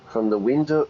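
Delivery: light German accent attempt; a hint of a German accent. Shown as a demonstration. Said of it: "that's me trying to do a German accent".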